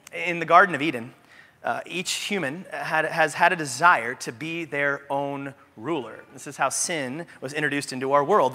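ordinary delivery

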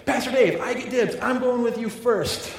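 put-on high, excited child pleading; little girl's voice. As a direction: imitate an eager little girl calling dibs. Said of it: "she was like".

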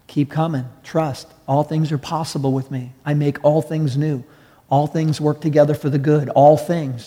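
a hint of God's voice, soft and tender; gentle voice of God. Preacher voicing God to the discouraged, softly tender. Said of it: "And God's like".

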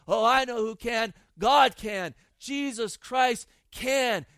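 loud, building cry of faith; preacher's rising shout that God can; triumphant shout. Real, not acted. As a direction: proclaim it full force from the pulpit.

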